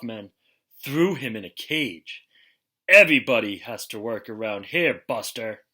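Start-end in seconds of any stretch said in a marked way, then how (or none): 2.9-5.6 louder, rough tough-guy voice. Acted. A hint of a tough guy locking Ralph in the cage. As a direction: growl like a circus heavy. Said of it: "the tough guy said".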